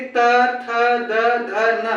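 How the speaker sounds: त, थ, द, ध, न with the tongue on the teeth; deliberate त, थ, द, ध, न off the teeth; dental consonant demo. Shown as a demonstration. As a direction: recite त, थ, द, ध, न as distinct dentals. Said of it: "दांत को टच कर रही है".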